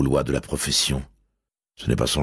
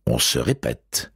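usual speaking voice

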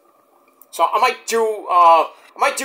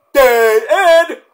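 spooky punchline; 7 semitones higher, 7 dB louder than usual. Acted. Punchline in put-on voice.

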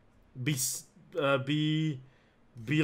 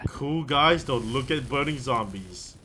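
slow action hero voice; 4 dB louder, slower than usual. Pretend. Mock cool-guy movie line.

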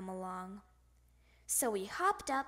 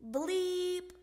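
high, held horn note; saxophone bleep; 6 semitones higher, 3 dB louder than usual. A narrator's reading. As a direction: hold it like one last toot. Imitating one more saxophone note.

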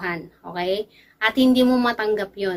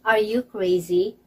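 slow teaching read; slower than usual. Shown as a demonstration. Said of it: "sa English ay".

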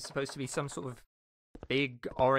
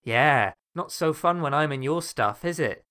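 booming, gloating villain; loud gloating taunt; 10 dB louder than usual. Acted. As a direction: rub it in, loud and smug. Villain gloats over player.

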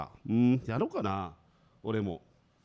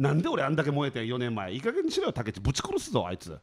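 mock angry rant. Comic rant at an old partner.

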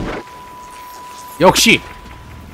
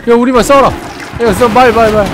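shouting; 6 semitones higher, 5 dB louder than usual. Real, not acted. Yelling at game enemies.

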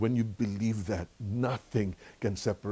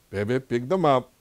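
put-on louder, slower order to a toddler; insistent order; 3 semitones higher, 6 dB louder than usual. Grandpa to granddaughter who ignored him, insistent. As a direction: press the request, drawing it out.

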